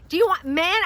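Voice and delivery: high mock yell; loud, confused shout. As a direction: imitate a clerk hollering a question. Acted deli man shouting back.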